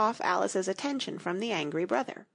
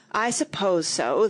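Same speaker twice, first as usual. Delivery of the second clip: slow, mildly sulky reply; 4 dB louder, slower than usual. Acted. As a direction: drag it out in a grudging sulk. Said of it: "the other sulkily replied".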